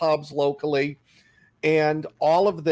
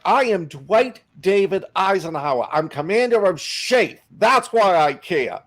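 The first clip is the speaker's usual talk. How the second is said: Eisenhower; 3 semitones higher, 4 dB louder than usual. Retold or imitated. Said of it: "And Eisenhower's like".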